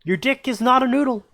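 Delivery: high sing-song witch chant. Acted. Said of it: "And the witch goes".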